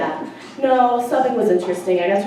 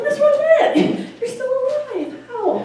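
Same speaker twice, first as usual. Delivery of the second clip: much higher, slow and laughing; teasing disbelief; slower than usual. Retold or imitated. Greeting her retired old teacher, teasing and laughing.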